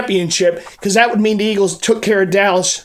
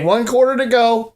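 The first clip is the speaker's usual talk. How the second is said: excited; 2 semitones higher than usual. Real, not acted. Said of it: "Gotta kinda tone it down".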